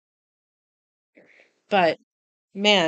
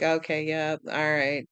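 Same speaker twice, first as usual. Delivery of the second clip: low, bored, unimpressed shrug; a viewer yawning through a cliché ending; 4 semitones lower than usual. Retold or imitated. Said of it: "It's like".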